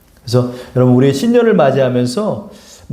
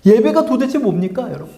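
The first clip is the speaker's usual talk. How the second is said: raised, pressing preacher's question; retelling a pastor's sermon, pitched higher and urgent; imitating another pastor; 6 semitones higher than usual. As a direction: challenge the congregation as the quoted pastor. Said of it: "이러는 거예요".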